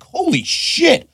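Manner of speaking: very high, very slow astonished curse; stunned disbelief. Retold or imitated. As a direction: stretch it out in shock, way up high. Retold shock at advances.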